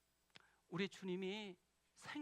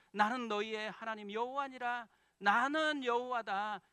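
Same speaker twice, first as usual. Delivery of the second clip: stern voice of God; 3 semitones higher, 8 dB louder than usual. Pretend. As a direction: proclaim it like God giving the law, louder on the last line. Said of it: "이렇게 계속 이야기하거든요".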